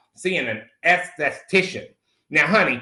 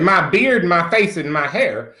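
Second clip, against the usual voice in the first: each item a louder indignant question; outraged disbelief; 3 dB louder than usual. Retold or imitated. Answering the esthetician, indignant disbelieving questions. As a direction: repeat her list back in shock. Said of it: "And I said".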